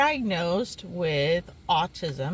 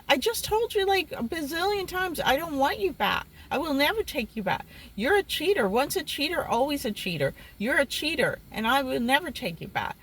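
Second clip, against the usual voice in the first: higher-pitched mild scolding of an ex; retold exasperation; 4 semitones higher, faster than usual. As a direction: tell off a cheater, only mildly heated. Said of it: "I was so mad".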